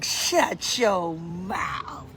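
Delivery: very slow, drawn-out disbelief, dropping low; floored by an unexpected guest; real astonishment. Real, not acted. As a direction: stretch every word in happy shock. Astonished at seeing Michael join.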